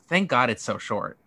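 ordinary delivery

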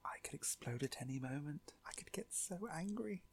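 mock rage held back in whispers; very soft, seething restraint; suppressed rage. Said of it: "holding it back and suppressing it".

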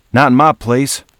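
high, loud yell from across a room. Acted. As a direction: shout the order to stop. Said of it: "yelled from behind the bar".

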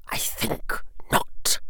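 slow, cold whisper; whispered disdain. A narrator's reading. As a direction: breathe it with quiet contempt. Lucius answers coldly.

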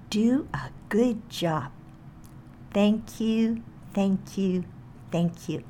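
slow, deliberate greeting to the knee; unhurried, spaced-out blessing; repeated slowly. Shown as a demonstration. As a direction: take it slowly, line by line. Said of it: "I'm going to repeat it slowly".

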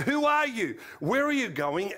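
high, loud challenge, easing slightly; commanded. A narrator's reading. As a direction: demand answers like an armed soldier.

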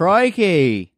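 high, drawn-out attempt at a Scottish accent; bad Scottish accent. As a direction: exclaim it in a badly faked Scottish accent. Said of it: "That's not Scottish".

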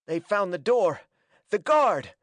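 high, urgent panted warning; panted alarm. A narrator's reading. Hackett warns that guards found the door, panted alarm. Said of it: "panted Hackett".

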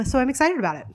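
playful unvoiced whisper; giggly prank whisper. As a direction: whisper it like a secret. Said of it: "Next week on A S M R with Jen".

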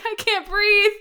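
very high, loud mock gasping cry; breathless retold wail. Wife answering her husband mid laughing fit, high mock wail. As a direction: squeal it out as if helpless with laughter.

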